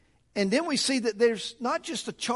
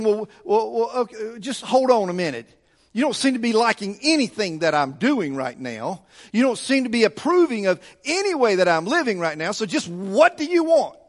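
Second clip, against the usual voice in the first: mildly exasperated back-talk; lightly acted sarcastic protest, building to the final question. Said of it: "like a sarcastic person saying".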